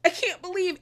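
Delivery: high, hammed-up stunned whimper; a lightly mocked wounded voice; mock victim. Recapper mocking Bronwyn playing victim at table, high.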